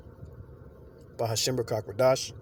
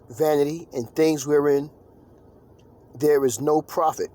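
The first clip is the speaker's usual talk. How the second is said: preaching; 2 semitones higher, 3 dB louder than usual. Acted. Reads scripture in preaching voice.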